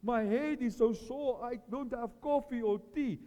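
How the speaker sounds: a hint of a self-pitying moan. Preacher mimics a fasting complainer, mild whine. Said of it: "Do not fast like".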